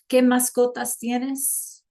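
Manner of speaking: slow, clear teacher model of ¿Qué mascotas tienes?; slow classroom question in Spanish; slow demo. Shown as a demonstration. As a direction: say the question slowly for learners. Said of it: "Can you tell me in chat".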